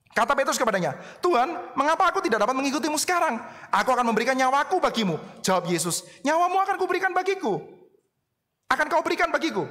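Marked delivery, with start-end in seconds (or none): 1.2-5.2 higher, eager disciple pleading; Peter protesting. Acted. 6.2-9.7 much higher, questioning repeat; Jesus questioning Peter's boast, high and incredulous; incredulous echo. Acted. Jesus echoes Peter's claim.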